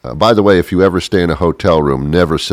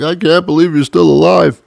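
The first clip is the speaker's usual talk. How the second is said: overjoyed reunion; 11 semitones higher than usual. Retold or imitated. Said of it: "they hug each other like".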